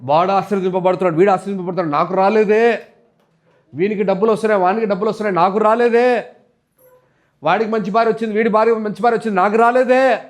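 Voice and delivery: acted jealous complaint, climbing to each refrain; listing grievances with a drawn-up ending; mock envious whining. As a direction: imitate someone whining about others' luck. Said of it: "ఇలాంటి ఏడుపులు మామూలు ఏడుపులు కాదు".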